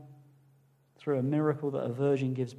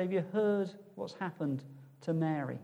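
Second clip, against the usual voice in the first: softly voiced disapproving gossip; gossiping townspeople; 8 dB quieter than usual. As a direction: pass on the scandal in a hushed tone. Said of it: "People are gonna say".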